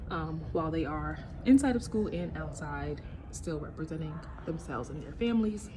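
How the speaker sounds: breathless after running; out of breath. Real, not acted. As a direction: speak while catching your breath. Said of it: "I feel so out of breath".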